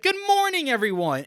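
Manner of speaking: high, sing-song cabin crew hello; mock flight attendant greeting. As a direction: chirp it like a showy steward.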